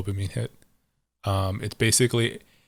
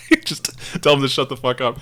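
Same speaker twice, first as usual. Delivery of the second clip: laughing; 4 semitones higher than usual. Real, not acted. Laughing at friend's crying.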